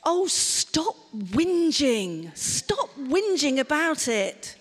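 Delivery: slow, drawn-out dismissive scolding; mock scornful parent. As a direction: brush their feelings aside. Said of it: "How about".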